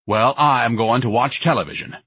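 mildly angry announcement; a touch of pompous irritation. Acted. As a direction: huff it with understated anger. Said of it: "Ignatius said angrily".

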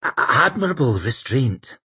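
nervous stammer on the start. Acted. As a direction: stumble into the words. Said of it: "stammered out".

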